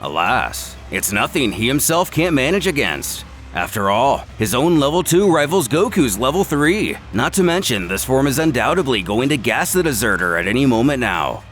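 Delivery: plain reading voice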